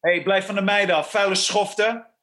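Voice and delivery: high, indignant yell to back off; angry shout. Acted. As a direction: shout them away from the girls. Confronting officers to protect the girls. (woedend en hoog schreeuwen)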